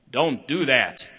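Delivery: sharp warning. Retold or imitated. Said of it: "it's the tone of the voice".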